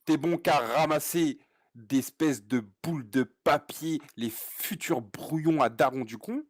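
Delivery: slow, grandiloquent tirade; théâtral. Pretend. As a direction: deliver insults like a Shakespearean monologue. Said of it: "c'est du Shakespeare". (tirade lente, théâtrale et déclamée)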